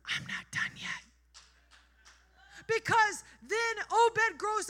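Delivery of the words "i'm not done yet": hushed breathy whisper. Pretend. God whispering a promise to Ruth. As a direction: lean in and breathe it softly. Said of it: "he whispers".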